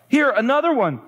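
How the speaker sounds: high-pitched mild wail; read-aloud wail of dismay. Acted. Corrie finds another flea, a high acted wail. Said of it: "I wailed".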